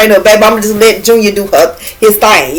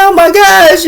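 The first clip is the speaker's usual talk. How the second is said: retold panic; 10 semitones higher, slower than usual. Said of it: "I was like".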